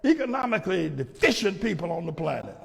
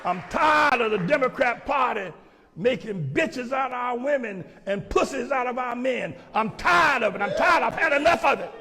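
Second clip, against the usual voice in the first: fiery preaching; 4 semitones higher than usual. Real, not acted. Preacher clip ranting at men.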